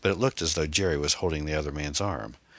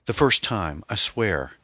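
louder, urgent protest; panicked denial; 4 semitones higher, 6 dB louder, slower than usual. Acted. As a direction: blurt it out nervously. Boy caught, denies in panic.

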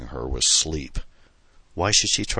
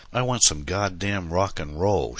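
blurted; 4 semitones higher than usual. Acted. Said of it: "she blurted out".

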